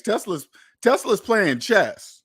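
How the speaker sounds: Tesla's playing chess, each word slowed and leaned on; slow emphatic. Real, not acted. Telling viewers Tesla outplays rivals, slow emphatic. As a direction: spell it out slowly for the viewers. Drives home his Tesla point.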